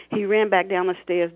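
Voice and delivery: expressive read-aloud of her own novel; story narration. A narrator's reading. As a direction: read it like an audiobook, voicing the characters. Author reads novel excerpt aloud.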